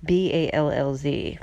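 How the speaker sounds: each letter of BALLZ said separately; spelled out letter by letter. Shown as a demonstration. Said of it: "I'm talking about".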